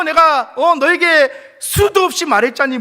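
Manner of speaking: loud, high reproach; firm loud rebuke. Pretend. God firmly rebukes the complaining believer. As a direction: remind them what was said.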